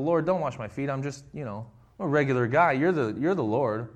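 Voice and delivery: humble. Retold or imitated. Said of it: "the very humble".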